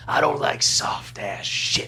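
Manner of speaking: slow, near-whispered tough-guy line; Tony Todd menace. Retold or imitated. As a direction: lay it down slow and breathy like a menacing movie heavy. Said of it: "who's the guy that goes".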